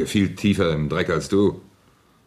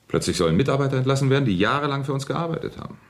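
indignant outburst; 9 semitones higher, faster than usual. Acted. Angry about staff being fired.

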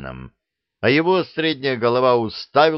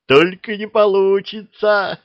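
high, louder, slow gleeful monster; just as gleeful; 12 semitones higher, 6 dB louder than usual. A narrator's reading. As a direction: announce failure with delight. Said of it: "не менее радостно сообщила левая".

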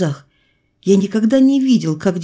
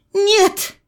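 much higher, sharp cry of no; mother shouts her refusal, much higher; shouted refusal. A narrator's reading. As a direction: cry out no in a different woman's voice. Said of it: "снова крикнула мать".

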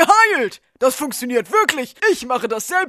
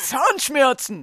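slow echo; 2 semitones lower, 4 dB quieter, slower than usual. Acted. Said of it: "Spielen Sie wieder Echo?".

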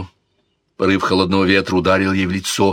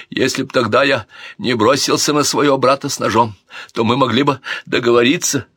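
put-on higher, whining drunk prince; drunken prince; 4 semitones higher than usual. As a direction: plead regretfully. Alfonso's voice continues.

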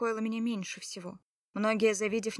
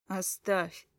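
ordinary delivery, nothing marked

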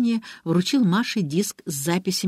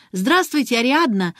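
put-on bright high girl's greeting, a bit louder; ringing voice; 6 semitones higher, 4 dB louder than usual. A narrator's reading. Girl greeting Ariadna at the gate, ringing high voice. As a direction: call out a ringing hello. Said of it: "звонким голосом проговорила Алиса".

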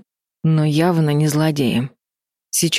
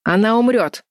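raised voice; 6 semitones higher than usual. A narrator's reading. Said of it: "Колтон повысил голос".

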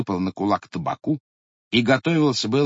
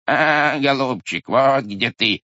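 bleating ram; 3 dB louder, slower than usual. Acted. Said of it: "заблеяла баранья голова".

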